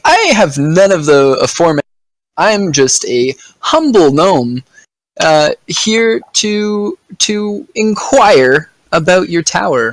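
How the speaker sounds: slow, meek gnome voice; drawn-out humble gnome, careful and polite. Acted. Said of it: "and I'm like".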